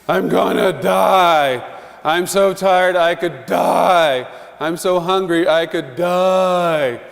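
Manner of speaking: a hint of a whining child, drawn out; slow dramatic child complaining; whiny child. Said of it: "children are given to speaking in extremes".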